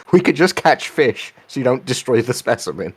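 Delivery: put-on light southern preacher accent; a hint of a Southern preacher voice. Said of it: "In a vaguely southern accent, referential to a sort of preachery character".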